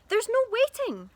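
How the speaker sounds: high, loud eager cry; cried. A narrator's reading. Dad brushing George aside, crying out eagerly. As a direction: cut him off impatiently. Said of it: "cried Mister Killy".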